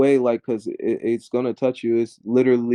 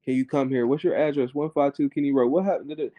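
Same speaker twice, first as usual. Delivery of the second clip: mock emergency call. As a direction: lightly act out a call to the operator.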